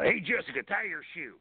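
chirpy announcement over the school speakers; announcer on the school PA telling a student to tie her shoe. Retold or imitated. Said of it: "me doing that voice".

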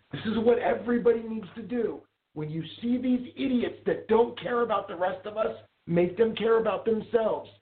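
high, slow, pointed public lecture; talking loudly. Retold or imitated. Lecturing shoppers about a coughing woman, loud and slow. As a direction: address the whole store, pitched high and deliberate. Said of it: "I didn't yell at her, but I talked loudly".

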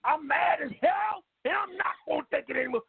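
caller hollering the line; shouting. Acted. Big Ike shouts the catchphrase.

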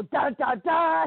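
mock fanfare to cue a guest; yelled sound effect. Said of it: "and I just yell it out".

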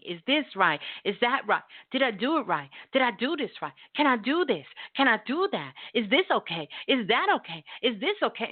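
rapid-fire string of needy questions; needy approval-seeking. Acted. Employee checking every move with the boss, needy.

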